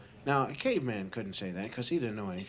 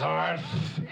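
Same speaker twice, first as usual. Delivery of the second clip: lisping tiger growl; 2 semitones higher than usual. Acted. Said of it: "he growls with a lisp".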